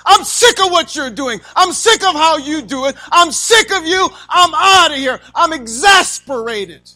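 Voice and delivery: loud, high exasperated yelling; fed up shout. Pretend. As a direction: shout like a spouse at the end of their rope. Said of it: "It means just be fed up".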